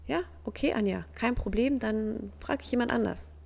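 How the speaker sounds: a loving friend caught off guard but fine with it; surprised friendly acceptance. Retold or imitated. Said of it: "habe ich gemerkt". (überrascht und freundlich, anfangs höher)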